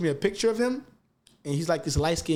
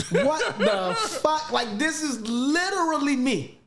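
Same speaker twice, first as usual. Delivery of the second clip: higher, slow, laughing through the words; laughing disbelief; 9 semitones higher, slower than usual. Real, not acted. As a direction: laugh it out in amazement, can't believe it. Retelling an uncanny coincidence, laughing.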